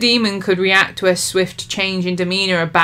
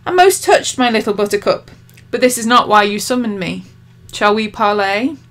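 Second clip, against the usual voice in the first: demon voice; 4 semitones higher, 4 dB louder than usual. Acted. Demon voice in read story.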